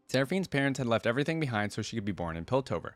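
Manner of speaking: measured read-aloud of a biography; deliberate storybook phrasing; story narration. A narrator's reading. Reads champion story aloud.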